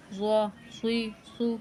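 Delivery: "زو، سوی، سو" with a thick, heavy first consonant; full-mouthed heavy letter. Shown as a demonstration. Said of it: "اس کو موٹا پڑھنا ہے". ("زو، سوی، سو" موٹا، پُر کر کے)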